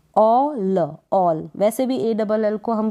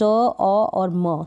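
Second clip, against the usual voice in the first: slow spelling; much slower than usual. Shown as a demonstration. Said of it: "एस टी को स्ट".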